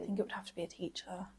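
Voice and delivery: whispered and fast; whispering. Real, not acted. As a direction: whisper the answer quickly. Unvoiced quiet answer.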